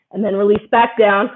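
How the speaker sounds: breathless, catching breath. Real, not acted. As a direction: talk while winded. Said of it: "I know I'm out of breath too".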